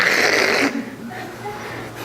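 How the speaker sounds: voiceless hiss of recoil; imitated shudder at a terrible accent; mock cringe noise. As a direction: wince aloud as at nails on a chalkboard. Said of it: "any Irish person would go like".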